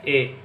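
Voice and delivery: "ए" said as an open German "eh"; German letter name. Shown as a demonstration. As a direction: model the letter "ए" short and clear. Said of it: "ई को बोलेंगे". (German में "ए" बोलिए)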